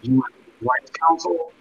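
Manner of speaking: muffled, as if in a bubble; underwater sound. Real, not acted. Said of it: "You sound like you're in a bubble".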